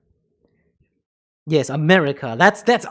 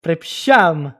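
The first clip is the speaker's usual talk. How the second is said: a louder, emphatic Polish sorry; loud apology; 5 dB louder than usual. Pretend. Apologising to the stranger in mock Polish, a louder sorry. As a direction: blurt the apology out.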